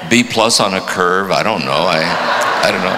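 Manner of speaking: hammed-up judgmental mentor; mock disdain from a spiritual director at a deathbed; scornful director. Director goes on mocking the dying man.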